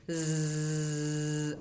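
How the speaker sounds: low steady bee-like zzz; buzzing z. Shown as a demonstration. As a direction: hold a steady buzz. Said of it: "a mesma coisa".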